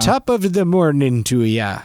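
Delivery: slow, deliberately bad Irish accent; drawn-out, badly faked Irish. Shown as a demonstration. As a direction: attempt Irish and land near Minnesotan. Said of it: "I'll do my bad one first".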